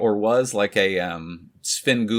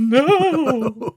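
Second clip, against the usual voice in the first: high laughing no; 5 dB louder than usual. Real, not acted. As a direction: squeal it through laughter. Laughing reaction.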